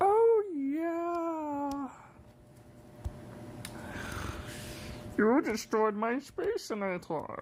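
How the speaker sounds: very high, slow cartoon alien, drawn-out "yeah". Doing a voice they can only hold for two minutes, Marvin the Martian voice. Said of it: "I freaking sound like Marvin the Martian. I'm like".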